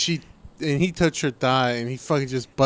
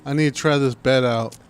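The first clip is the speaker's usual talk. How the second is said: mock call-out; 4 dB louder than usual. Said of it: "You're like".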